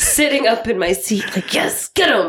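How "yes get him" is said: higher-pitched egging on; re-enacted cheering on. Moviegoer sitting up cheering the hero, excited urging. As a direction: urge the hero on from your seat.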